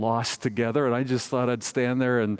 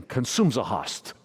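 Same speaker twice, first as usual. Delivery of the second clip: lightly imitated Croatian accent, words run together; a hint of imitated Croatian accent; thick Croatian accent. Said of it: "But he said again".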